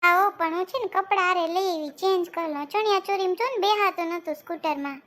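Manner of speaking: put-on happy little girl saying her goodbyes; young girl's voice. Girl thanks everyone after the festival dance, lightly girlish. Same girl wants to change clothes.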